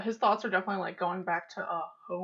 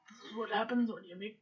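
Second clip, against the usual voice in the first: muttering under breath; 8 dB quieter, faster than usual. Acted. Character grumbling to himself as he leaves, muttered. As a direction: mutter it privately, barely voiced. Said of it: "muttering this under your breath".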